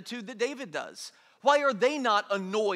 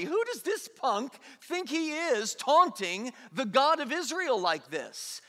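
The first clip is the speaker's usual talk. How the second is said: indignant David; 4 semitones higher than usual. Retold or imitated. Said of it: "You notice the attitude David has there?".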